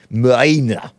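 put-on "Mina" tried lightly in an Australian accent. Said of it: "pronounce it with an Australian accent".

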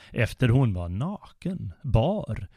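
normal talking voice

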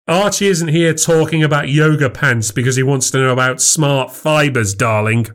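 mock her belief in him; sarcastic. Husband mocks wife.

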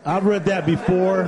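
slow, chuckling repeat; laughing. Real, not acted. Guest repeating himself to the host, laughing. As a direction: say it again, laughing at the joke.

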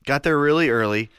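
hoarse, worn-out voice; voice giving out. Real, not acted. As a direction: voice almost gone, raspy. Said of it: "Your voice is almost gone".

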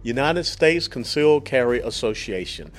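lively, emphatic podcast ad read; sponsor ad read. Real, not acted. Host pitches concealed carry membership to listeners, promotional ad read. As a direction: sell it clearly, punching key words.

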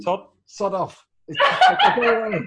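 slow, laughing "sod off"; laughing off the inner critic; laughing dismissal. Retold or imitated. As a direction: brush him off through a laugh. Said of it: "just say".

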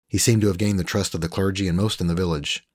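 usual speaking voice

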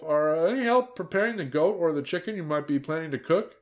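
high, ladylike wheedling question; put-on feminine voice. A narrator's reading. Disguised wolf angles for goat meat, falsely feminine. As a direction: keep the false feminine pitch up.

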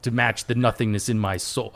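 loud, grandiose JRPG villain monologue; megalomaniac rant. Acted. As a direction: declaim it like a world-ending villain. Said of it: "No, I've got one of those ready".

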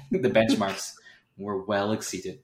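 slow, laughing sultry read; sultry narrator. Acted. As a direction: purr out a research paper slowly. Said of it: "in a nice sultry voice".

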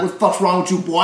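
mock Southern scolding, like Foghorn Leghorn; hammed-up American Southern accent. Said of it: "me trying to do a southern accent".

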